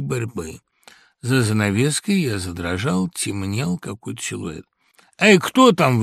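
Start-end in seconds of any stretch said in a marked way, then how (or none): 5.2-6.0 loud, high, startled call into the dark; nervous call. A narrator's reading. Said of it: "выговорил я". (испуганный окрик)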